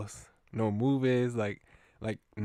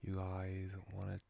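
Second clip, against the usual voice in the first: put-on Cockney accent; 3 semitones lower, 8 dB quieter than usual. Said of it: "let me give him a Cockney".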